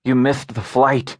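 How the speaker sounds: "missed"を舌足らずに「ミθト」と発音; Lispらしく「missed」のsを舌先で擦らせる. A narrator's reading. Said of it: "said Lisp".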